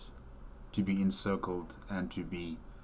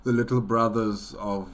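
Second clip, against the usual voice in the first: louder, laughing through the words; 3 semitones higher, 7 dB louder than usual. Real, not acted. Repeating the Little Brothers name to viewers, laughing louder. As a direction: still giggling while repeating the name.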